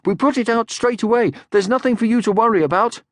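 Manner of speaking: put-on high, loud young troll shout; eager troll shout; Moomin Troll shouting. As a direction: shout it proudly like a child. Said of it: "Moomin Troll shouted".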